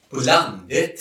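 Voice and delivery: "landet" with dialect stress and rising end; Östergötland stress. Shown as a demonstration. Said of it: "väldigt lustig betoning i Östergötland".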